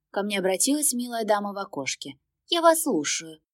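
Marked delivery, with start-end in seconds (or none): 2.5-3.4 high, bright-toned ticket clerk; polite service lady at the window; cashier voice. Acted. (вежливая кассирша, высокий голос)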